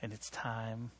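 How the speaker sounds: the Lord gently setting him straight; soft, calm divine rebuke. Retold or imitated. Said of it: "it was like the Lord saying".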